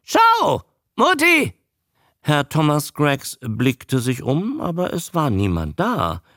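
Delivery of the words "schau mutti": very high, loud croak; high-pitched newt squawk; croaking creature. A narrator's reading. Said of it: "krächzend".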